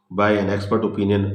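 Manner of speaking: very slow, word by word, as if dictating notes; slow heading read. Shown as a demonstration. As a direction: spell out the heading slowly so students can write it. Reading out a heading slowly. (धीरे धीरे शीर्षक लिखवाना)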